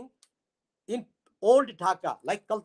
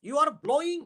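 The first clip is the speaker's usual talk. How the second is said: poetic recitation; 3 semitones higher, faster than usual. Shown as a demonstration. Showing literary talk, he addresses the western wind poetically. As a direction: recite it like a lovelorn poet. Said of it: "As for example".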